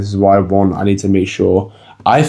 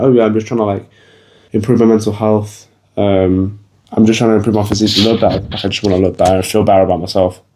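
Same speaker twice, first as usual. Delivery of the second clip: meek justifying; faster than usual. Pretend. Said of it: "if you say it as in".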